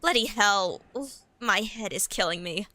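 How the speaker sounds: relaxed, unforced complaint. Acted. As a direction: drop the accent and say it relaxed. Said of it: "I was just doing a relaxed voice".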